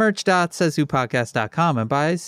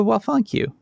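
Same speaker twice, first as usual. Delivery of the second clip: put-on Southern accent. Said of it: "a weird Southern accent halfway through my mouth".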